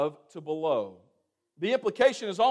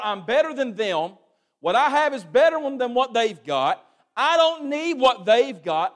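proud boast; 4 semitones higher, 5 dB louder than usual. Acted.

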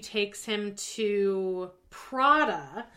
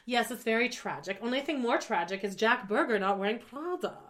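put-on lightly accented European store owner; imitated Bruno accent. Store owner lamenting to customer, imitated European accent. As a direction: quote him in a loose put-on European accent. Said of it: "I'm doing the Bruno accent".

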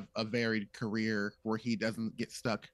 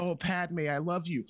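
lovesick words, slightly higher, edging toward obsession; unhinged Anakin; 5 semitones higher than usual. Retold or imitated. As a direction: set up the creepy ex-boyfriend. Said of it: "have him be like".

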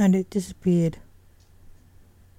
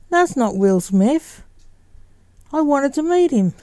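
lightly voiced youngster, pitched up on the complaint; disappointed youngster; 7 semitones higher than usual. A narrator's reading. Junior finds the visitor isn't Will Smith, mildly disappointed youngster.

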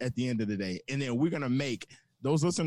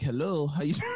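lightly put-on London accent, barely there; a faint fake London accent to chat up girls. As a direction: drunk attempt at a London accent, hardly changed. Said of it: "fake London accent".

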